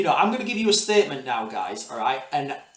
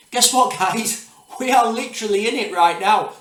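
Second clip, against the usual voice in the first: excited reveal; 6 semitones higher, 6 dB louder than usual. Real, not acted. Reveals war escalation.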